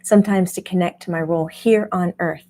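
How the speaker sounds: lightly voiced self-quote; a mild mock of herself; imitating herself. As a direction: play back your own earnest agreement. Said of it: "Jamie's like".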